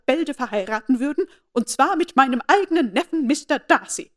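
haughty aunt scolding about the rumour; angry. A narrator's reading. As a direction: lecture her with outraged authority. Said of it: "in ärgerlichem Ton".

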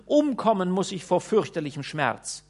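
high, plaintive wailing; lamenting. A narrator's reading. Lady complaining to Peregrinus about the cold, high lament. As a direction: whimper about her freezing feet. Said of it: "indem sie jammerte".

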